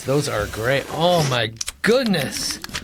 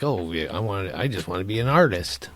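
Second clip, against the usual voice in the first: mock kid; 8 semitones lower, 5 dB quieter than usual. Mock child telling family.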